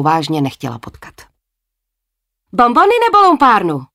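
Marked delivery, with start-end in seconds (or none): 2.5-3.9 vysoké hlasité zaječení malého upíra; ječ jako malé dítě v kostýmu. Acted. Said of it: "Zaječel na ní malý upír". (dítě v kostýmu upíra ječí na Jet, vysoko a hlasitě)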